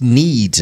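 "needs" deliberately emphasized as the key word; stress on NEEDS. Real, not acted. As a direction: lean hard on the word "needs". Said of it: "I'm gonna stress the word needs".

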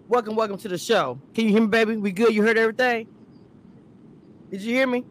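glitchy robotic audio; choppy, broken connection sound. Real, not acted. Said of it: "you sound like a robot right now".

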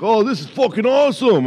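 high, stoked stoner voice; stoner guy voice. Retold or imitated. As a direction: play the thrilled stoner. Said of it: "He's like".

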